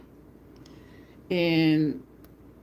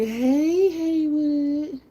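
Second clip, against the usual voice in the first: high, louder sing-song hello; excited greeting; 9 semitones higher, 5 dB louder, much slower than usual. Shown as a demonstration. Explaining to Haywood why she loves greeting him, high and louder. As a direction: show off the fun way she calls his name. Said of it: "so I can just be like".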